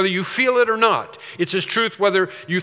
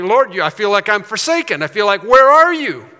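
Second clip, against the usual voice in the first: raised, pleading call to the Lord; forsaken cry to God; 3 semitones higher, 6 dB louder than usual. Acted. Believer who feels forsaken calls out to God, pleading.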